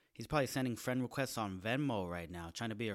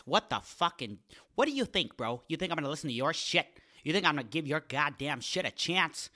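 mock rant; 3 semitones higher, 7 dB louder than usual. Mock ranting at listeners.

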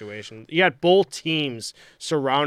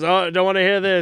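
mock announcer; 5 semitones higher, 5 dB louder than usual. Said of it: "and he goes".

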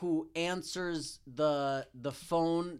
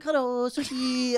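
sushi phone greeting; 6 semitones higher, 6 dB louder, slower than usual. Retold or imitated. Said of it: "And I'm like".

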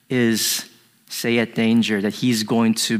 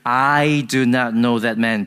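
firm, final denial; sworn denial. Retold or imitated. Peter swearing he has no tie, emphatic denial. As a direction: deny it flatly and finally. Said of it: "having a curse on himself and swearing".

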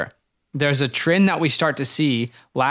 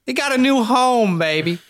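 high hyped-up announcer shout; hype; 9 semitones higher than usual. Acted. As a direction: sell it like a hype man. Hype intro, pitch jumps.

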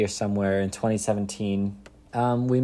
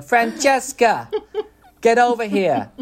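New Jersey shout; 12 semitones higher, 6 dB louder than usual. Retold or imitated. Husband imitating his wife calling a friend, loud New Jersey accent. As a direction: call her over in a brassy New Jersey accent. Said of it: "and she was going".

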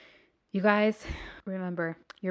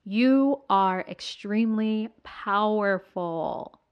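slow, louder booming declaration; booming motivational speech; 7 dB louder, much slower than usual. Acted. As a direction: proclaim it like a rally speaker. Hyping up listeners at the close.

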